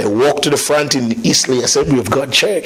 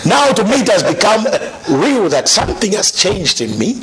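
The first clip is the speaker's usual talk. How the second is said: laughing; 4 semitones higher than usual. Real, not acted. Laughs recalling joy.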